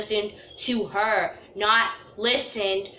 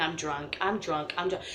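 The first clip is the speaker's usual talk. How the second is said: put-on drunk mumbling; 7 semitones lower, 8 dB quieter than usual. Stumbling drunk muttering.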